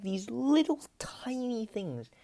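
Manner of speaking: slow, high breathy whisper about tiny things. Real, not acted. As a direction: whisper it as if they're fragile. Describing the tiny baby frogs.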